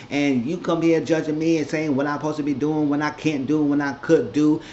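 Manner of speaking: understated imitated heated complaint; mild mock indignation. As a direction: keep needling her wounded tone. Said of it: "Ashley was getting heated".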